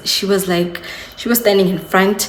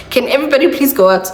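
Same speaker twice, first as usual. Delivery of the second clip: higher, fast dramatic demand; mock diva order; 6 semitones higher, 3 dB louder, much faster than usual. Labouring mother, hammed up, ordering the room cleared, fast and high. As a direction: shoo everyone out in mock drama. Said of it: "It was giving that".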